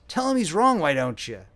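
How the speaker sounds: put-on weak old complaint. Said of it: "he complained in a weak voice".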